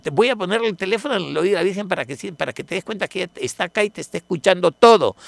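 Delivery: high, fast, urgent telling; sister to her sister. Retold or imitated. Sister on the phone urging her sister, fast and high. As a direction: coax her sister to trust.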